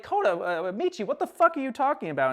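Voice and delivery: high-pitched indignant retort; mad. Retold or imitated. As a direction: act out angry disbelief. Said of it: "she's mad at him".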